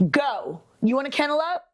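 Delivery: a hint of a sing-song mom talking to her dog. Real, not acted. Owner sending the dog to its kennel in a light mom voice. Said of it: "Mom voice".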